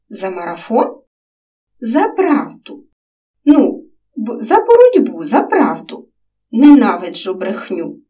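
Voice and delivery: lightly voiced children chatting; child voices in dialogue. A narrator's reading. Girl and boy chatting about dreams, lightly voiced children.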